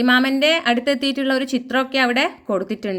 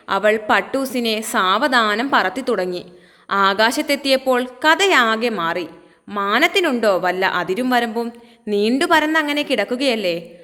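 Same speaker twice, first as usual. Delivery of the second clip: put-on expressive children's story reading; measured storyteller delivery; story narration. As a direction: read it out clearly as a storybook tale.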